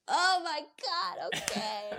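startled agreement. Retold or imitated. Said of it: "And I'm like".

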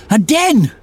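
excited shout of discovery. Acted. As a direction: call out eagerly. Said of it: "she shouted".

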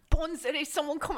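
put-on failed stab at an Australian accent; badly faked Australian. Attempting the actress's voice and failing, badly faked Australian accent. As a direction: have a clumsy go at Australian. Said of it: "I can't do an Australian accent".

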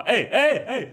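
high, urgent repeated calls; imitated protest. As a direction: yelp in protest like someone being grabbed. Imitates woman protesting being grabbed. (härmad protest, ljust och ivrigt)

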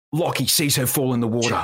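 lightly ocker TV narration; a touch of broad Australian documentary voice-over; Bondi Rescue narrator. Shown as a demonstration. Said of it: "ochre it up a bit".

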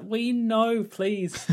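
high, drawn-out mock pleading; exasperated plea. Mock plea to repetitive writers.

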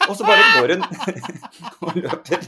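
bursting into high laughter; giggling loudly while telling it; laughing. Real, not acted. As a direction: laugh through the words, pitch way up. Laughs mid-story.

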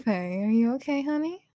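lightly teasing mommy-style check-in; dommy voice. Pretend. Checking on flustered Faye, lightly put-on dommy voice. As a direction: coo it as a question, lifting on honey. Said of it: "Oh, that's your Dommy voice".

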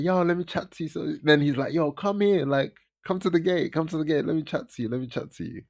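high, insistent call easing down by the end; imitating calling out. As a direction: coax her over from a distance. Retold calling girl to the gate.

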